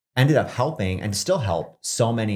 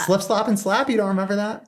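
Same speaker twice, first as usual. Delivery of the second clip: incredulous; 11 semitones higher than usual. Real, not acted. Incredulous friend didn't know.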